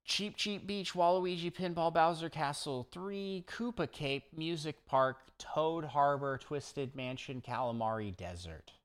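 rattled off without a breath; all in one breath. Real, not acted. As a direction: list it all in one breath, running out of air. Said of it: "Getting lightheaded doing that".

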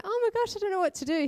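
high, distressed tearful voice; crying. Retold or imitated. A wife panicking to her husband over a donation, high and tearful. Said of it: "burst into tears".

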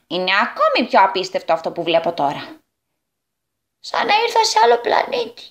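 lightly voiced goblin, marvelling at humans; astonished goblin. (έκπληκτος καλικάτζαρος)

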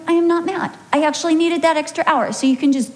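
wife brushing him off, voice up and quick. Retold or imitated. Wife snapping back at husband, high and fast. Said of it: "And I'm like".

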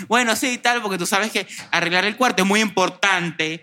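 high, slow sarcastic "tú sabes"; sarcastic mom tone. Retold or imitated. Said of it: "con tonito". (tonito sarcástico de mamá, agudo y lento)

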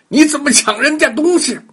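sharp accusing yell at a thief; shout. Acted. Child yelling after the bully who grabbed the toy. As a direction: call him out loudly.

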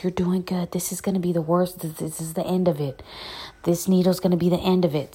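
hushed, coaxing whisper; nurse's whisper. Retold or imitated. Nurse whispering encouragement to her during the needle, hushed. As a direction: whisper her through the worst of it.

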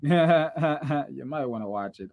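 slow, drawn-out taunt; slow teasing. Acted. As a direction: taunt them slowly. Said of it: "slow teasing repeat".

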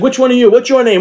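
high friendly voice. Retold or imitated. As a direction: ask the kids like a playful auntie. Agent asking the twins.

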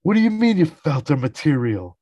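hammed-up fatherly outrage; mock outrage. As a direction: rant at your son like an outraged father. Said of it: "He's flipping out on George".

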